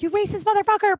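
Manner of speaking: high-pitched mock outburst; imagined flip-out. Friend imagining flipping out at the racist girlfriend, mock outrage. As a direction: burst out as if finally losing it. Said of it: "flip out at her".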